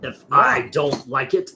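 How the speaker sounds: slow, deliberate film quote; measured, drawn-out character line; Ratatouille critic. Acted. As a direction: draw out the last words like a disdainful critic. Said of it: "He was a voice in Ratatouille".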